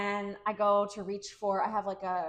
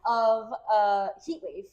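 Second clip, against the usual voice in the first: laughing; 8 dB louder, slower than usual. Pretend. Still in Boston bit, laughing.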